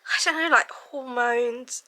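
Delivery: ordinary talk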